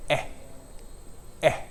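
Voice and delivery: eh as a short open vowel; vowel demo. Shown as a demonstration. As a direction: hold a clear eh. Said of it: "The first is".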